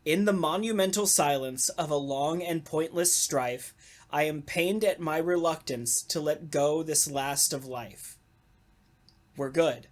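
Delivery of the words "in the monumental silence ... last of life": poem reading. Shown as a demonstration. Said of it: "So here's the whole poem".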